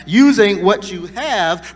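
slowed right down, each word weighted; slow emphatic repeat. Shown as a demonstration. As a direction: drive the phrase home slowly.

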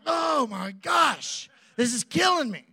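high, slow drawn-out groan of frustration; mock exasperation. Husband telling his buddy in the truck how the wait hurts. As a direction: ham up the agony of waiting.

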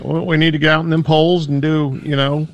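high, empty stump-speech voice; corrupt politician. Acted. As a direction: talk in hollow campaign promises. Keeps up politician act.

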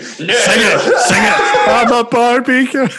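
excited. Pretend. Mock demand to sing a song.

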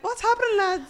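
high laughing question. Retold or imitated. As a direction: laugh through it. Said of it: "I'm like".

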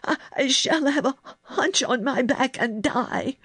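high, stammering, strangled dread; choked. A narrator's reading. Sick boy foretells his own death to girl, choked. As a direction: wail it out in panic. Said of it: "he choked".

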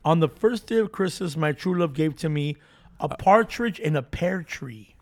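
reading the carol. Shown as a demonstration. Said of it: "Let's go over them".

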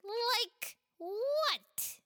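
put-on a playful kid offering help; giggly child voice. Pela offers to help friends, giggly child voice.

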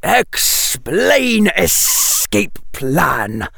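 high, slow commanding snake; a snake giving orders; imperious. A narrator's reading. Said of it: "the snake said imperiously".

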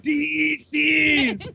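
long drawn-out announcer shout; mock announcer. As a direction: stretch every word like a ring announcer. Mock show announcer sign-off.

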